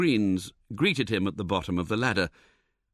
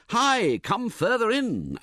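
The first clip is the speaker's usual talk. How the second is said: calling out; 11 semitones higher, slower than usual. A narrator's reading. Narrator warning man leaning out porthole, calling out. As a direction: shout to pull him back from danger.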